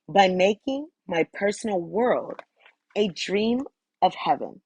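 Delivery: deliberate affirmation, phrase by phrase; measured recital. Real, not acted. Reader affirming she changes the world by loving herself, measured recital. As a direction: recite it with pauses between phrases. Reads channeled message aloud.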